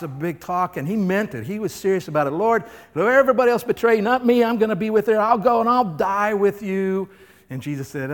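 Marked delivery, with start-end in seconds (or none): 2.3-7.1 loud, high, fast vow; bold boast. Acted. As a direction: swear loyalty to the Lord. Peter's boast voiced.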